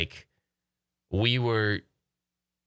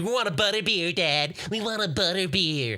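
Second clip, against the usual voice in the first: put-on whiny begging kids; 7 semitones higher than usual. Voicing his begging kids.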